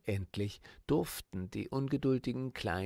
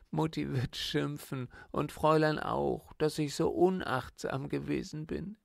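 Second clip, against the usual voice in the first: wailing; 4 semitones higher than usual. Acted. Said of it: "jammerte sie".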